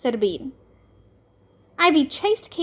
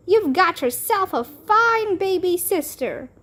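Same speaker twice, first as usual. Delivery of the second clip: high, bright-eyed exclaiming; excited cry; 6 semitones higher than usual. A narrator's reading. Bean tells Ivy her prayers were answered, high excited cry. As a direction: announce it like a miracle. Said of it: "cried Bean".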